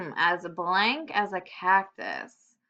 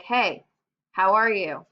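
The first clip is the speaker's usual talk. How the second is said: louder, friendly greeting; lightly voiced outgoing greeting; 5 dB louder, slower than usual. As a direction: play an outgoing kid saying hi. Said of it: "He's pretty outgoing".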